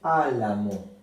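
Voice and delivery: álamo with the first Á stressed. Shown as a demonstration. Teacher modelling the stress of álamo. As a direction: say álamo leaning on Á. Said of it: "Se acentúa en esta sílaba".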